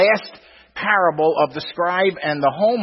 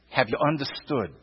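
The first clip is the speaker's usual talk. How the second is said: soft repeat; 5 semitones lower, 7 dB quieter than usual. Acted. Preacher repeating Jesus' question to the congregation, hushed and low. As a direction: softly repeat the question, dropping much lower and quieter.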